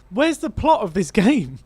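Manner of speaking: slow, high, laughing disbelief. Real, not acted. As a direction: laugh through the question. Laughing at the missing plot.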